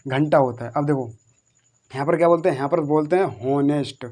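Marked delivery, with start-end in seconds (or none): 3.4-4.1 हॉनेस्ट with an audible h at the start; mistaken h sounded. Shown as a demonstration. Teacher quotes how people say it, h sounded in हॉनेस्ट. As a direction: say हॉनेस्ट with the h wrongly voiced. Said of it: "पर ये हॉनेस्ट नहीं होता है".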